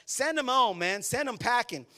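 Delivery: high, loud "send them home, man"; mock pushy disciples. Preacher voicing pushy disciples, high and loud. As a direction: push Jesus to dismiss the crowd. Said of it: "Their suggestion was".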